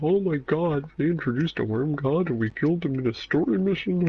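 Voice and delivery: high, breathless outraged fanboy; mock fan outrage. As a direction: squeal it like a shocked fan. Mocking shocked fans' reaction.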